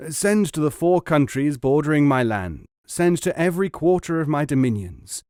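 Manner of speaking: loud royal decree; commanding king. Acted. King demands silk from every land, loudly commanding. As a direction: proclaim it to the whole kingdom.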